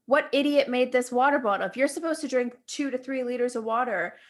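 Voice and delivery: ranting through laughter; laughing rant. Real, not acted. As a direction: giggle while complaining. Ranting about bottle, laughing.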